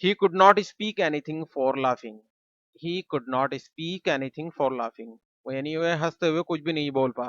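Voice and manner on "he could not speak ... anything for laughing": slow model sentence. Shown as a demonstration. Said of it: "हम कहेंगे".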